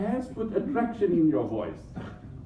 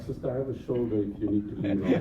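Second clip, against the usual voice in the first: mock flirty offer; 12 semitones lower, 5 dB quieter, much faster than usual. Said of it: "I'm like".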